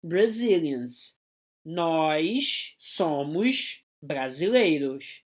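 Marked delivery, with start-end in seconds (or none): 0.0-3.8 drawn-out careful reading; teacher reading the example slowly; slow model sentence. Shown as a demonstration. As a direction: stretch each word for the learners. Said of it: "We are".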